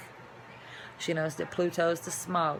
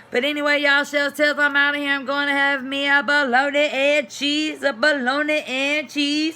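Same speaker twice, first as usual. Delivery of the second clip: high and loud, sing-song silly; giddy; 6 semitones higher, 7 dB louder than usual. Real, not acted. Signing off to viewers for a snack, giddy sing-song. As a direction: chant it like a playful tune. Playful sign-off singing.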